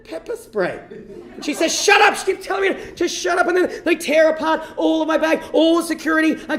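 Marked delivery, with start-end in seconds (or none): 0.0-0.8 slow, careful, softer delivery; slower. Retold or imitated. Traveller repeating himself to a confused guard, slower and softer. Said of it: "say it a bit slower". 1.7-2.2 high, loud cut-off; sudden shout. Retold or imitated. Guard silencing a traveller, sudden high shout. Guard cuts him off again.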